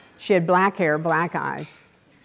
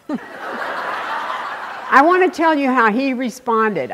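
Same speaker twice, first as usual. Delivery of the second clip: laughing; 6 semitones higher, 3 dB louder, slower than usual. Real, not acted. Laughs recalling the insult.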